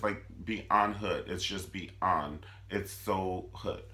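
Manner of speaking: slow, drawn-out beyond hood; disbelief. Real, not acted. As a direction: savor it slowly. Disbelieving comment.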